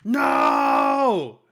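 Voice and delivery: loud. Acted. Mock outraged protest.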